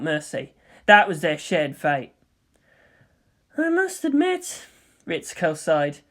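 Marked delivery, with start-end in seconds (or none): 3.6-4.6 composed scientist, pitched higher; cool, measured colleague; Ritsuko's voice. Acted. Ritsuko congratulating Misato, composed and higher.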